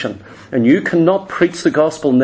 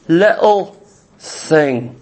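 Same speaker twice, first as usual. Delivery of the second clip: drawn-out catch; much slower than usual. Acted. Jesus naming the catch slowly.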